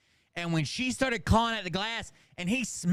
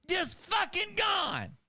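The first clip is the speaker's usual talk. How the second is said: amazed disbelief; 12 semitones higher, 3 dB quieter, slower than usual. Real, not acted. Amazed retelling of cat girl.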